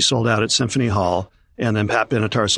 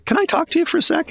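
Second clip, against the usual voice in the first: much higher-pitched retold urgent aside; retold alarmed request. Rattled tour accountant pulls promoter outside, mock alarm. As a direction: imitate a rattled accountant, voice pushed high.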